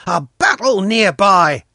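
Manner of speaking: put-on high, loud boy's alarm; excited cry. A narrator's reading. Pashka hearing shots behind the grove, high loud cry. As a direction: cry out the news, pitched high. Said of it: "Pashka cried".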